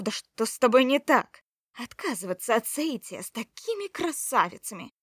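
domineering sorceress, raising her voice; imperious woman, loud. Acted. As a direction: bark orders, outraged. (властная женщина, на повышенных тонах)

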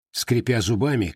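usual speaking voice

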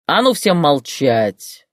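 slow, loud barked command to silence; barked order. Acted. Boss barks at the shouting women, slow and loud. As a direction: bark it slowly to shut the room up. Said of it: "рявкнул шеф".

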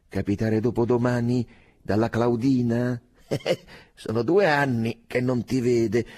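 loud teasing through laughter; laughing tease. A narrator's reading. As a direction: rib him with a laugh. (presa in giro ridendo, forte)

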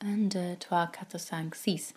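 counting to himself in a whisper. Real, not acted. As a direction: whisper the French numbers under your breath. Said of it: "what is six in French?".

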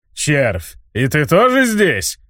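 slow, rumbling giant beast; rumbling monster voice. Acted. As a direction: growl it down at the small worm. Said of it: "прогрохотал монстр".

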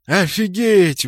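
spontaneous wow; amazed outburst. A narrator's reading. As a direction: blurt it out, stunned. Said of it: "вырвалось у нас всех".

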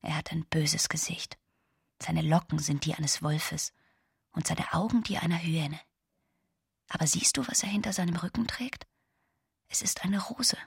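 put-on soft whisper, as if telling a child a secret; hushed storytelling. Giovanna whispering her mother's puppet tale to Camillo.

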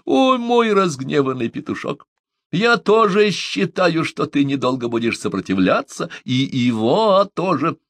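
high, stretched, singsong tease; amused teasing. A narrator's reading. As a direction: tease with mirth held back. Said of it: "стараясь сдержать смех". (насмешливо, нараспев)

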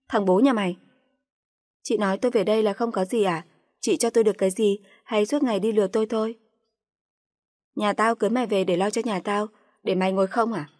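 rain insults down on her; shouted abuse. Acted. Sister-in-law berates the wife for sitting idle, shouting abuse.

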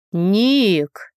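short call to get a friend's attention. A narrator's reading. A guy hails his friend Nick, calling out. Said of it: "услышали мы оклик".

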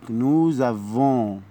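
nous avons with a z sound before avons, very slow; slow French liaison nous-z-avons. Shown as a demonstration. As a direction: join nous to avons with a clear z. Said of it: "هننطقها زد".

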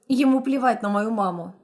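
ordinary delivery, nothing marked

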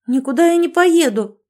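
high, loud sudden blurt. A narrator's reading. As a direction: fire it straight back. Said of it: "выпалила Олеся".

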